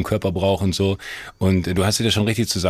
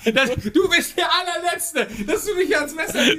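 squealing high through laughter; laughing so hard the voice jumps way up; laughing protest. Real, not acted. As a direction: protest while cracking up. Protests he was betrayed, laughing.

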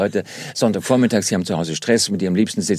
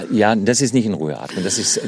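ordinary delivery

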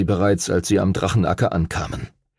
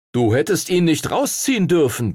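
higher-pitched protest; complaining; 6 semitones higher than usual. A narrator's reading. Edward to the rival who pulled it out, complaining. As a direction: object as if cheated. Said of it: "beschwerte sich Edward".

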